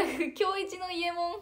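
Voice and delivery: slow, high, loud "伊右衛門" like a cartoon robot cat; Doraemon-like. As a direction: draw out "伊右衛門" in a playful cartoon voice. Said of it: "ドラえもんみたいに言うやん".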